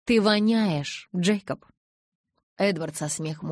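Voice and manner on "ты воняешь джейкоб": teasing. Acted. Teasing jab at Jacob.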